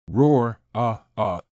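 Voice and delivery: a beast's roar trailing into growls; monster roar. Acted. Bear mascot roaring at the audience, beastly roar.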